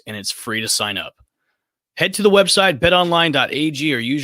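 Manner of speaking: upbeat sponsor read voice. Acted. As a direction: sell it like a radio spot.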